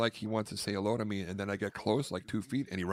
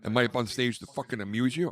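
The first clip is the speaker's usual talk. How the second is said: mock tough-guy quote; 4 semitones higher, 4 dB louder, faster than usual. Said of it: "And I went".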